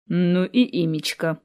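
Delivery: slow, wry little grumble; wry grimace. Acted. Man wincing at the girl's long name, slow and wry. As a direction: wince at the odd name, slowly. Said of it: "поморщился он".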